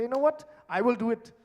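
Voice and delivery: a touch of huffy pride, lightly voiced; mild mock sulk, I'll do it myself; lightly played proud husband after a quarrel. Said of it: "he say".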